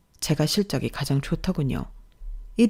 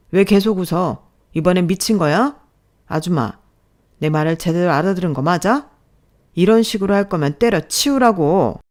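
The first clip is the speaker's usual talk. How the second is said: louder, incredulous telling-off; berating boss; 5 dB louder than usual. Acted. Boss to smiling middle-aged newcomer, berating. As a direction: berate with mounting exasperation.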